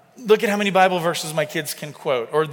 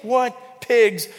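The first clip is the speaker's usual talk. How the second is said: high-pitched, scandalized exclamation; shocked outrage; 6 semitones higher than usual. Acted. Jewish listeners hearing of pig feeding, acted outrage. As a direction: react as if utterly scandalized. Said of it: "you know, outrage".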